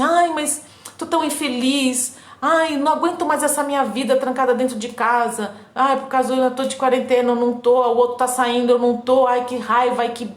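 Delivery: lightly imitating someone moaning about quarantine; whiny complainer. Mimicking a bored person complaining about being stuck at home, mock whine. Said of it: "aquela coisa que você fala assim".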